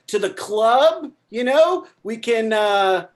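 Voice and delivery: stoner party dude. Acted. Stoned party guy voiced in skit.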